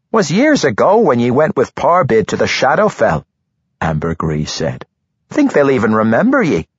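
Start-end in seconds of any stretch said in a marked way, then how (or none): 0.1-3.2 put-on dwarf accent, a bit louder; gruff dwarf woman. A narrator's reading. Dwarf Ambergris voice. 5.3-6.7 put-on dwarf accent, a bit louder; gruff dwarf woman. A narrator's reading. Dwarf Ambergris voice.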